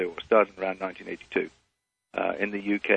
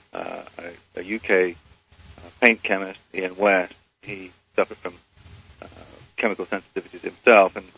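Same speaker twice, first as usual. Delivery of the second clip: phone held away. Real, not acted. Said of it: "ask you to speak into the phone".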